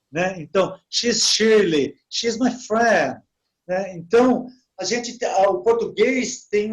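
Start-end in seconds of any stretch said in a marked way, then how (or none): 0.9-3.2 slow, measured English model phrases; slow example sentences. Shown as a demonstration. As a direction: spell it out slowly for new learners. (frases em inglês ditas devagar, como modelo)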